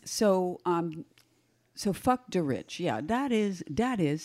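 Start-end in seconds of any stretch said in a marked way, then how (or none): 1.7-4.2 put-on light Italian accent on fuck the rich; a hint of an Italian accent. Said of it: "see, I'm doing the Italian accent already".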